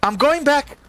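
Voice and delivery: high, whiny giving-up voice; defeated wizard. Retold or imitated. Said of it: "And he's like".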